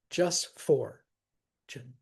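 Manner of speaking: "fortune" drawn out very slowly, FOR stressed. Shown as a demonstration. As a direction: stretch out "fortune", lean on FOR. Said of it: "that's how we say fortune".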